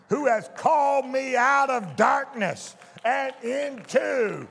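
slow, emphatic declaration line by line; a hint of congregational recitation. Preacher leading the church to say the verse, slow and emphatic. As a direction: lead the church in a measured confession. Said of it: "But I want you to say".

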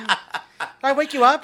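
high caller voice. Retold or imitated. Imitating the caller, slow.

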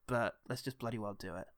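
low, softening words of solidarity; reassuring. Retold or imitated. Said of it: "that little moment of just reassurance".

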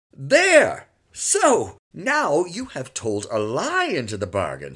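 loud, high triumphant scolding; mock stern. A narrator's reading. Father catches son lying, mock stern. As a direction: pounce on the lie with feigned anger. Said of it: "disguising his smile by a frown".

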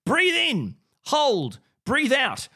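high-pitched mock instructions for box breathing; mock breathing exercise. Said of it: "doing your box breathing".

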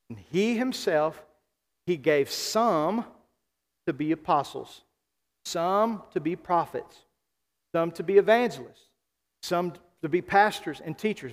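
measured scripture reading, pauses between phrases; slow reading. Real, not acted. Pastor reading scripture to congregation, slow and deliberate. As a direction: draw out "some" and pause after each role. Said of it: "I want us to read it slowly".

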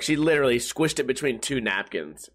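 ordinary talk, nothing marked

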